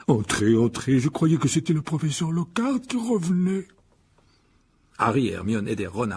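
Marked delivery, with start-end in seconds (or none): 0.1-3.7 slow, gruffly welcoming big man; rough gamekeeper. A narrator's reading. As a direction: greet visitors in a slow, lumbering voice. Voices giant gamekeeper Hagrid. (garde-chasse bourru, débit lent)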